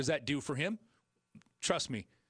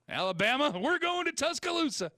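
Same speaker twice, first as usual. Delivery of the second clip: excited; 13 semitones higher, 4 dB louder than usual. Real, not acted. Host hyping big game.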